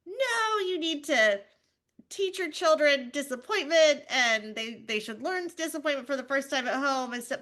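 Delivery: high, lecturing judgmental tone; mock preachy parents. Judgmental parents lecturing her, high and preachy. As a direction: lecture like a know-it-all parent. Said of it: "people are like".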